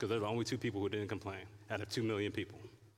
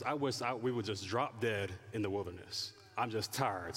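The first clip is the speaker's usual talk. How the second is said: mock weary moan; 3 semitones lower than usual. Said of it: "the last one that they said was".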